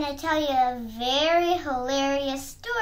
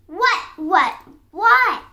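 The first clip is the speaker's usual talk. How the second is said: loud, rising repeated demand; exasperated shout; 4 semitones higher, 9 dB louder, slower than usual. A narrator's reading. Fox interrupted by the piglet yet again, shouting. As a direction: fire each one louder and higher. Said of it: "shouted the fox".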